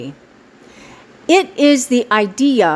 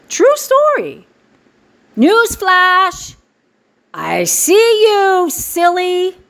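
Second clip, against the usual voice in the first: teasing; 7 semitones higher, slower than usual. Real, not acted. Teasing hidden onlookers.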